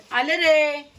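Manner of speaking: real shouted reply across the house; calling out. Real, not acted. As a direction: holler to someone waiting. Calls out she is coming.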